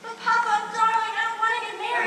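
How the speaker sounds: a bride pleads with her father before the wedding, frantic; desperate pleading. Acted. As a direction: beg him to let her stay.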